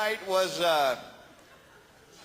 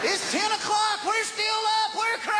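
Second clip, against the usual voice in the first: high whooping party shout; mock wild excitement; 13 semitones higher than usual. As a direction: yell like a crazy hellraiser.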